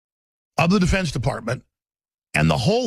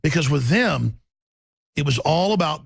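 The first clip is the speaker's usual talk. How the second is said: ordinary delivery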